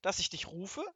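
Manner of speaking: loud, rising anger at the servant; impatient shouting. Acted. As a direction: demand an answer, loudly. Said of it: "rief Zwackelmann".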